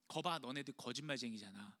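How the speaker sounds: a light sneer from the scribes, jeering; mildly mock the failed disciples; mocking taunt. Scribes jeering at the disciples, a hint of a sneer. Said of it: "막 이야기를 하는 거예요".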